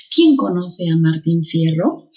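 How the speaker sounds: slow question with "quién" punched; teacher stressing the opening "quién"; emphatic QUIÉN. Shown as a demonstration. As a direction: hit "quién" first, rising at the end. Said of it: "también es enfático".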